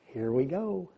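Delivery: a high, loud "Showtime!" with a laugh; gleeful shout. Retold or imitated. Boy perched on the post to watch dad thrown, gleeful. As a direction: announce the show with glee. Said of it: "I'm like".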